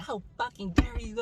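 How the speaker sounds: high-pitched indignant outburst, retold; acted-out outrage in a high voice; going off on him. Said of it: "So I was just going off".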